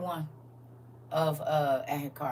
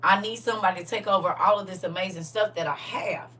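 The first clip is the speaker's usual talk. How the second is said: pleading king voice; 3 semitones higher, 4 dB louder than usual. Retold or imitated. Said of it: "and said".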